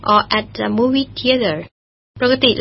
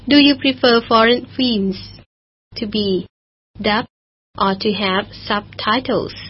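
slow model reading; much slower than usual. Shown as a demonstration. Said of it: "teacher reads the final question".

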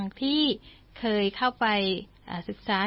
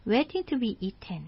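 slow story reading; 3 dB quieter, much slower than usual. Shown as a demonstration. English story read slowly.

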